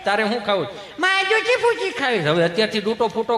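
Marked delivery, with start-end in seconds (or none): 1.0-2.2 put-on high child's demand; whiny kid. Child demanding junk food from his parent. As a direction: pitch up like a bratty child.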